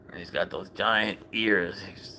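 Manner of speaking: soft whisper to viewers. Real, not acted. To viewers about the cat's ears, whispered. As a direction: hush it, admiring the cat's ears. Quietly admiring cat on stream.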